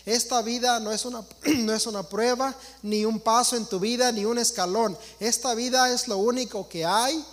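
mildly voiced forgiving God speaking to his children; voicing their God. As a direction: preach it as the God people imagine. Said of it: "lo que enseñan allá afuera que Dios dice".

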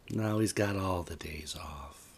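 unvoiced dark aside; whispering. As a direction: whisper the punchline.

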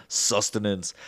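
slow, soft, drawn-out creepy line; slow quiet creepy quote. Retold or imitated. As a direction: breathe it out slowly and creepily. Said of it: "He's like".

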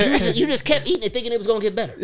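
fast, high, laughing through the words. Real, not acted. Dad laughing about his son finishing the gross pie. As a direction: laugh while telling it.

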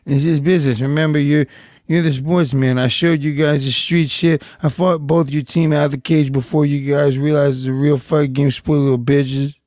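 lightly voiced trash-talking fighter; a hint of a fighter's taunting, reading tweets aloud; Nate Diaz. Co-host reads a tweet to a rival, lightly impersonated trash talk. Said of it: "you do a pretty good Nate Diaz impression".

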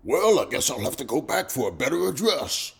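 amused. A narrator's reading. Man covering for himself before passer-by, amused. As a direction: make light of it, ready to laugh. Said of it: "He laughed".

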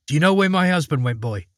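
quick, high anxious wife; urgent old wife asking fast; worried wife. Acted. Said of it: "she asked".

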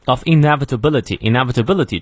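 "inevitability" given full weight after a light "of"; stress on INEVITABILITY. Shown as a demonstration. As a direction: lean on "inevitability". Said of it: "重读". (“inevitability”重读)

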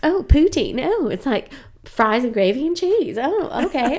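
high, badly faked Southern accent; Jack McBrayer. Visiting comic discovering poutine, bad Southern accent. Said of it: "doing a really bad accent".

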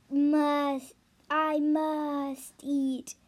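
slow, strange dragon voice. Acted. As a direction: stretch it out like a starving beast. Hungry dragon speaks.

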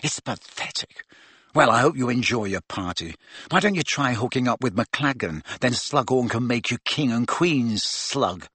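a hint of a sulky sneer; mock them lightly and coldly. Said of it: "with a sneer worthy of Malfoy".

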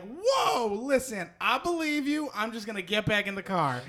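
high startled yelp, easing down into placating; mock alarmed backing-off. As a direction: imitate someone hastily backing down, pitch falling. Retells woman backing down, alarmed.

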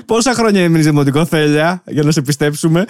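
high, laughing question; laughing teasing. Real, not acted. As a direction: tease through leftover laughter. Teasing her after bursting out laughing. (γελώντας, πειραχτικά)

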